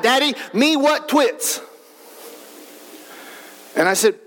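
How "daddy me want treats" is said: lightly imitated little boy, higher and drawn out; toddler yelling out. Small son calls to Dad from his car seat, imitated toddler yell. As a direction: mimic a small son calling from the back. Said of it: "he will, he will yell out".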